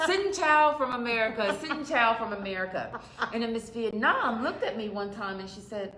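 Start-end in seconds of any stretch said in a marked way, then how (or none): 0.1-3.0 put-on country accent. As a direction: imitate yourself greeting in a Texas country accent. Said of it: "I just used my country accent".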